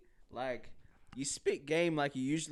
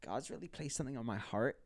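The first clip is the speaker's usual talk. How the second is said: put-on Toronto man accent; 2 semitones lower, 8 dB quieter than usual. To a girl at church, lightly done Toronto man accent. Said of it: "doing a Toronto man accent".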